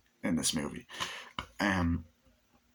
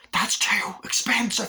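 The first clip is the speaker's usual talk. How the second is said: menacing whisper; 13 semitones higher, 4 dB louder than usual. Retold or imitated. Villain menaces shopkeeper over prices.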